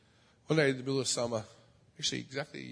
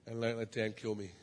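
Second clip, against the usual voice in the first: nervous inner thought; 5 dB quieter than usual. Retold or imitated. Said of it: "I'm thinking".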